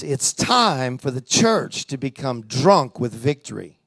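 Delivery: low, slow, solemn divine voice; voice of God. Retold or imitated. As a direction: deliver it like a word from God. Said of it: "the Lord says this".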